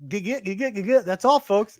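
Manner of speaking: light Looney Tunes stuttering sign-off; mock cartoon stutter. Co-host imitating the Looney Tunes ending, mock stutter. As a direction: stutter playfully into the catchphrase. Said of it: "making fun of stuttering".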